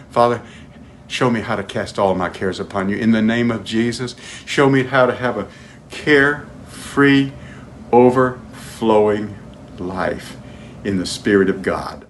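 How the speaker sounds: low, earnest prayer, stretching carefree and overflowing; spoken prayer. Acted. Congregation prays with preacher.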